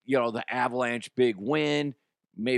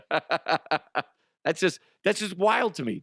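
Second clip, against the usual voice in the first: higher, laughing through the words; laughing disbelief; 5 semitones higher, slower than usual. Real, not acted.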